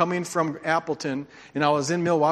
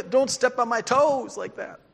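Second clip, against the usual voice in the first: laughing mock complaint; 8 semitones higher than usual. Playful mock complaint to the congregation.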